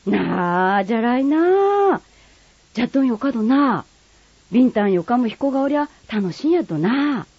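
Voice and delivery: high, lively Kagoshima dialect neighbour. Acted. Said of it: "鹿児島弁は".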